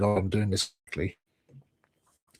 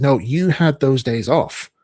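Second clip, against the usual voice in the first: stern boss; 3 semitones higher, 6 dB louder than usual. Retold or imitated. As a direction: boss accusing him of missing his shifts. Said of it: "pointed to the screen and said".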